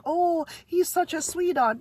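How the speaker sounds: high, cooing put-on voice; mock doting owner. Mimicking a dog owner whose big dog runs loose, high cooing voice. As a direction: coo it like a proud pet parent. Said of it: "coming up to people like".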